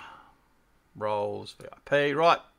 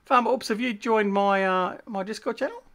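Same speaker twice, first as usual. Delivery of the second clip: raised, high-pitched hail; calling out; 8 semitones higher than usual. Real, not acted. Streamer asking viewer to join Discord, calling out. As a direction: call out to get their attention.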